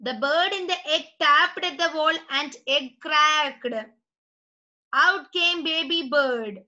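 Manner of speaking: slow, spaced-out classroom reading; story read-aloud. Acted. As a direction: read it slowly to the class, phrase by phrase. (കുട്ടികൾക്കായി പതുക്കെ കഥ വായിക്കുന്നു)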